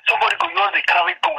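excited. Real, not acted. Heated rant about guns everywhere.

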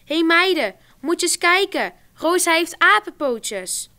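put-on loud, high jeering call to the girls; mocking exclamation. A narrator's reading. Edith mocking Rosa's legs in the gym class, loud jeer. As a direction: point and jeer at her legs.

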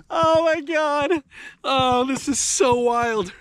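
high laugh into slow, drawn-out amazement; laugh, then stretch the words high in wonder; giddy disbelief. Real, not acted. Angler holding a record fish, giddy disbelief.

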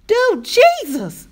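loud, wild cry to heaven; high, wild scream. A narrator's reading. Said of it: "she screamed, her voice high and wild".

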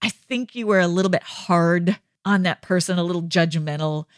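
tender, measured reproof without shaming; gentle correction. Acted. God kindly correcting Allison over a mistake, gentle correction. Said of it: "Do you hear the tone in my voice?".

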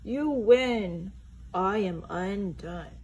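hammed-up defeat, slowing down; understated sob of defeat; mild blubbering. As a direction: sink into mock despair. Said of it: "he blubbered".

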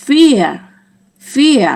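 "fear" high and loud, falling, for learners; German vier demonstration. Shown as a demonstration. Teacher reads out German four for learners, high falling "fear". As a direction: model German "fear", vowel stretched then falling. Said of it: "อ่านว่า".

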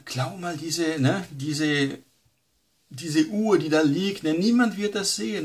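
rising, coaxing tempter's voice; a hint of a sly tempter; tempting Satan. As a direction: entice them to steal the watch. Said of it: "Oder klauen".

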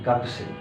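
গাকু সেই with the u sounded in full; full syllables. Shown as a demonstration. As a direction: spell out গাকু সেই carefully. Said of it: "গাকু সেই না বলে ওরা".

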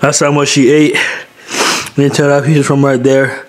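throat burned from spicy food; voice strained from spice. Real, not acted. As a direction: raw voice after hot food. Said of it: "you can hear it in my voice".

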